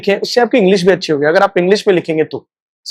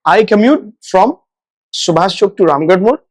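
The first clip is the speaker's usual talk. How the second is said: slow model sentence. Shown as a demonstration. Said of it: "तो उसको बोलेंगे कम्यूट".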